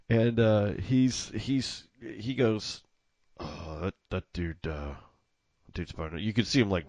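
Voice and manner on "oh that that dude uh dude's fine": hushed aside. Retold or imitated. Clerk murmurs aside to coworker.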